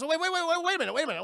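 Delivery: frantic protest. Retold or imitated. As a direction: stop them before the ship leaves. She protests being taken.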